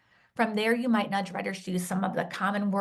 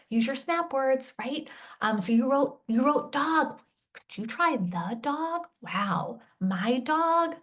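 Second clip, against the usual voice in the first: encouraging nudge; 4 semitones higher, slower than usual. Shown as a demonstration. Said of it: "I might be, um, nudging them".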